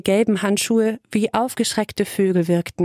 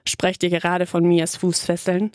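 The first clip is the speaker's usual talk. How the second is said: a lightly lowered bass voice for a new man; deep bass voice. Acted. Newcomer teasing the women about anklets, lightly voiced deep bass. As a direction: drop into a hint of a deep bass. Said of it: "der tiefen Bassstimme".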